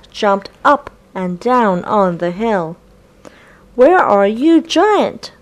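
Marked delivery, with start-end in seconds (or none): 3.7-5.3 calling out high and loud; shouting. A narrator's reading. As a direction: shout it across the hill. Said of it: "shouted the kids".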